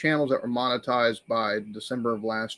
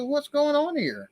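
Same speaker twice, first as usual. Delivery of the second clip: retold amazement; 13 semitones higher, slower than usual.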